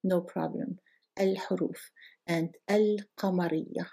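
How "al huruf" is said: Al huruf with throaty ħ; Arabic al. Shown as a demonstration. Teacher models al before a moon letter. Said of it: "we can say".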